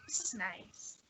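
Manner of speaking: soft, contented whisper; quiet whisper. Acted. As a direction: whisper it, enjoying the fire. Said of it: "just being like".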